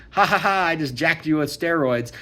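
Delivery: mock villain gloating over his victim; mock gloating laugh. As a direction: cackle like a cartoon prankster.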